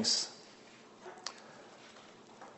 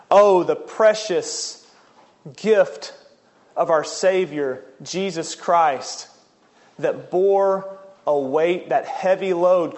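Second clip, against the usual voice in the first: reverent preaching; slower than usual. Real, not acted. Preaches on the verse just read.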